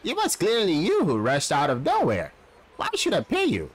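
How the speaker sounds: angry driver. Acted. Driver argues back.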